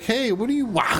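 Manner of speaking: high, blunt shout-ask; dumb barbarian. Retold or imitated. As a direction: ask it like a clueless brute. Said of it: "He's like".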